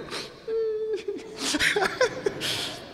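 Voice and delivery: high-pitched imitated whimper; mock crying. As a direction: whimper in a high, put-on sob. Retelling how he started crying.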